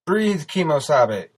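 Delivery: high, loud, drawn-out shout; shouted command, stretched out. A narrator's reading. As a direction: holler it slowly and urgently. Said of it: "David shouted".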